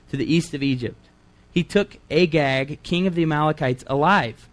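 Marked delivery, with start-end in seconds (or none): 1.5-4.5 "alive" set apart after a pause, falling; stress on alive. Shown as a demonstration. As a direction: put the emphasis on the word "alive". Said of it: "Emphasis on the word alive".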